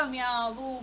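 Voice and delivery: lightly imitated meow; a small mock mew in passing; kitten meow. Teacher showing the kitten's picture, lightly imitated meow. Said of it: "മ്യാവൂ പറഞ്ഞിട്ട്".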